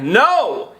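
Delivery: retold emphatic, drawn-out refusal; aggressive driver. Driver from Iran asked about home, mock aggressive. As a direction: imitate a blunt, aggressive refusal. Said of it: "He was aggressive".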